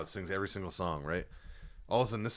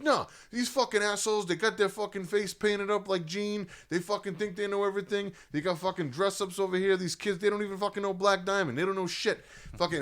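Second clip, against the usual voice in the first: high, loud mock rant at the crowd; angry rocker; 12 semitones higher, 4 dB louder than usual. Rocker dad ranting at a rock band's crowd, loud and high. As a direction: rage at the kids like a drunk superfan. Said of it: "He's like".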